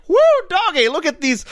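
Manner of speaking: high-pitched redneck whoop; redneck Cockney. Acted. Co-host voicing the proles who love machine-made songs, redneck Cockney. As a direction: whoop it like a hick, mock Cockney. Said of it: "that's how they speak".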